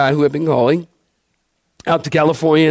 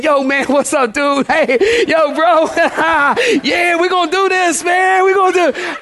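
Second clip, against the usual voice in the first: mock street slang; 10 semitones higher than usual. Pastor imitating the slang he never used on the phone, hammed-up. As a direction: play a cool dude hyping it up, half laughing. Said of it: "talking like a normal person".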